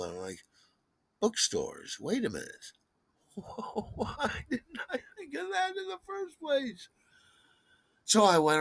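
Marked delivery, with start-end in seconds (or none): 1.2-6.9 very high, soft falsetto wonder; sudden realization. Retold or imitated. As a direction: stretch it out in a tiny high voice. Sudden idea in acted inner thought.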